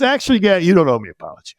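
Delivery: a hint of the teacher, high start; lightly voiced old teacher; imitating the teacher. Teacher waving off the apology, lightly voiced. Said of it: "He goes".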